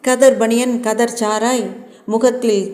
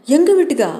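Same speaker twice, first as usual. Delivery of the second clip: incredulous, pitched-up echo question; startled question; 6 semitones higher, 3 dB louder, faster than usual. A narrator's reading. Kumarasamy to runaway girl asking for shelter, startled. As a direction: ask it back, voice rising in surprise.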